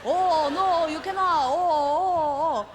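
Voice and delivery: loud, high prissy mock scolding; hammed-up snooty refusal; mocking table snobs. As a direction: sneer at her like snooty diners. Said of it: "Just, uh".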